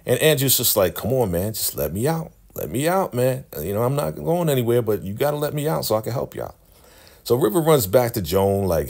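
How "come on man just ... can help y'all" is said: mock pleading. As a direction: plead to be let out, acted lightly. Andrew begs to be released.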